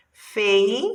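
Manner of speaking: first syllable set apart on its own; sílaba isolada. Shown as a demonstration. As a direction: say Fei as a separate beat. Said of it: "primeira sílaba".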